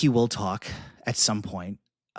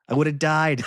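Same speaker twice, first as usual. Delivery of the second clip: excited; 7 semitones higher, 6 dB louder than usual. Real, not acted. Delighted at imagined Grogu moment.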